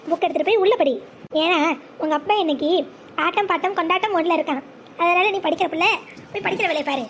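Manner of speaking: put-on low-pitched drunk dad; low, boozy fatherly talk; tipsy father. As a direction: send the child off, pleasantly drunk. Tipsy father sends child to study.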